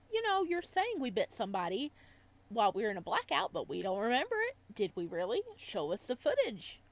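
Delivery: agitated demand; rushed confrontation. Acted. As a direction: press him quickly for proof. Player confronts doctor.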